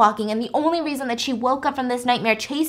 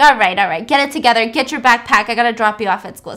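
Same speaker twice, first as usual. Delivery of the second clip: louder, hurried mom orders; brisk mom; 6 dB louder than usual. Retold or imitated. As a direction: hustle the kid out the door. Mom hurries son along.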